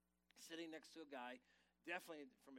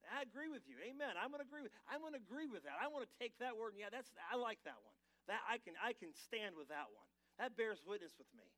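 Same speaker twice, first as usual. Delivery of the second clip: raised, louder call-back of amen and agreement; modelling congregation agreement; 6 semitones higher, 6 dB louder than usual. Shown as a demonstration. Pastor demonstrating to the congregation how to answer back, louder and higher. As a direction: show the church how to talk back, loud and glad. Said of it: "Speak it out. Agree with it".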